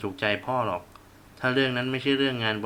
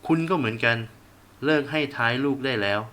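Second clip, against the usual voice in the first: father bellows at his wife, louder; raised angry voice; 2 semitones higher, 4 dB louder than usual. Acted. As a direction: push the voice up in anger. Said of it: "พ่อตะเบงเสียงพูดกับแม่". (พ่อตะเบงเสียงใส่แม่)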